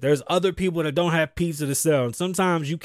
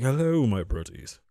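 low villain voice; bad guy voice; 6 semitones lower than usual. Host shows off his voice for a cartoon bad guy, low villain voice. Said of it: "an accent for a bad guy voice".

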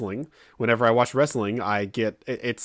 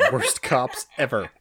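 ordinary talk

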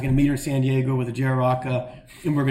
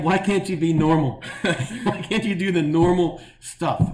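laughing through quote; 4 semitones higher, slower than usual. Retold or imitated. Retelling friend scolding him, laughing.

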